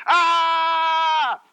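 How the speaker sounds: a long, high, very loud "Ah!"; council's drowning-out shout. Retold or imitated. The council shutting out Stephen's testimony, shouting. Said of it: "they're saying".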